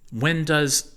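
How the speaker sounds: squeaky high chipmunk pitch. A narrator's reading. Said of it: "I sounded like a chipmunk".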